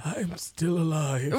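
slow mock old man; drawn-out, doddery delivery; Charles voice. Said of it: "Is this gonna be your Charles accent".

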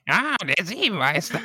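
amused high exclamation through a laugh. Real, not acted. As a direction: laugh out the correction. Laughing at a name mix-up. (lachend, hoch amüsiert)

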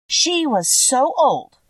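slow, lightly voiced kindly old witch; drawn out like a gentle old witch. Witch of the North explaining to Dorothy, a light old-witch voice.

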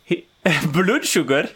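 laughing through blood sugar. Real, not acted. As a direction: giggle out the words. Laughing at own pronunciation.

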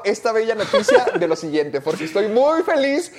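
laughing through the words in mock joy; sarcastic laughing delight. Real, not acted. Host laughing as he teases the Doolittle topic again, mock delight. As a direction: chuckle it out, pretending to be thrilled.

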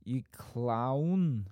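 tentative Bolton take on "clown"; attempted Bolton accent. Shown as a demonstration. Host retrying the phrase, imperfect Bolton accent. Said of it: "I can't even get you clown".

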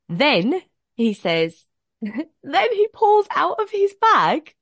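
high, slow, laughing through it; laughing build-up. Real, not acted. Telling the girls the reveal, laughing and high. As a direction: drag it out giggling for suspense.

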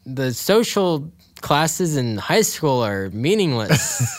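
slow, punchy trailer narrator; eighties trailer voice. Acted. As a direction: sell it like an old movie trailer. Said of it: "like, an eighties trailer".

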